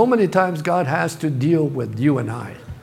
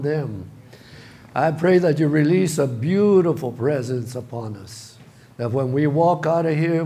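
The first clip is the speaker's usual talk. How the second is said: prayer. Real, not acted. Leads the congregation in prayer.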